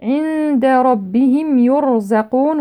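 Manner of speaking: slow recitation with thick ر in ربهم and يرزقون; heavy ra. Shown as a demonstration. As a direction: darken each ر in عند ربهم يرزقون. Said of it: "والراء مفخمة".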